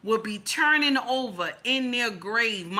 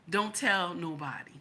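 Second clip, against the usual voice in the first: much softer, low and confiding; hushed secret; 4 semitones lower, 6 dB quieter than usual. Retold or imitated. Man at the airport tells her, softly confiding. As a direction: murmur it like a secret between friends. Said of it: "And he said to me".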